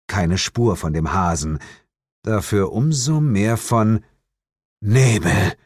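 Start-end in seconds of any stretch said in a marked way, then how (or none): 4.8-5.5 breathless single word; gasped. A narrator's reading. Detective sees fog rising after the chase, gasping. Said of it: "keuchte ich".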